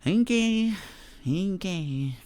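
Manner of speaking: mock fan taunt. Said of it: "It's like".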